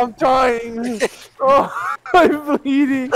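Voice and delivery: hammed-up dying groans; mock dying. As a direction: overact a dramatic death.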